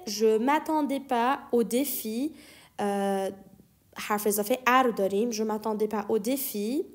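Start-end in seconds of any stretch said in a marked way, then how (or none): 5.3-6.8 slow model reading. Shown as a demonstration. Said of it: "teacher models the French phrase".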